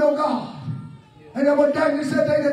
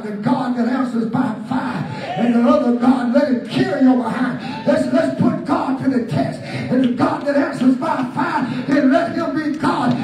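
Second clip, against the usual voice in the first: full-force preaching. Acted. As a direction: preach it hard and build toward the close.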